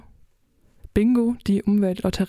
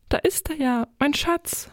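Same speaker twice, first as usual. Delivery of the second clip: light, higher-pitched joy at a find; delighted; 7 semitones higher than usual. A narrator's reading. Silvia spots a pile of shiny little grains, delighted. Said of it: "freute sie sich".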